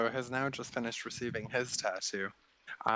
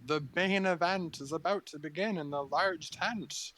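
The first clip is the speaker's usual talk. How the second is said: magically amplified voice; 7 semitones higher than usual. A narrator's reading. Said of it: "in a booming voice, uh, through some magical amplifying means".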